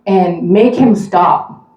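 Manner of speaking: an irritated stranger yelling from the seat ahead; retold angry yell. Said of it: "he looks back and he yells".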